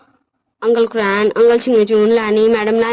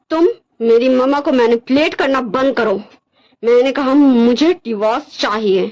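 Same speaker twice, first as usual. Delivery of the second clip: measured, dismissive character voice; cold, rejecting Wangji. Acted. Wangji demands a divorce from Wing, cold and dismissive. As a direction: reject him firmly, with deliberate pauses.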